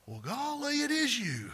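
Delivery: high, hammed-up surprise; family finally opening the door, amazed; mock amazed. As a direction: act astonished and folksy. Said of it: "they go".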